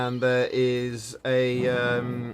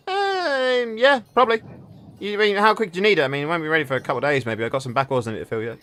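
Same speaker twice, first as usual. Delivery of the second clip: higher, fast-talking leatherworker; a hint of a busy craftsman; 5 semitones higher, faster than usual. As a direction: rattle off excuses quickly. Leatherworker Warren answers.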